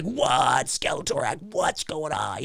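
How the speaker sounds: breathy, half-whispered astonishment; mock bewilderment. Viewer retells reacting to the twist, hushed bewilderment. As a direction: act out baffled shock under the breath. Acts out confused reaction to ending.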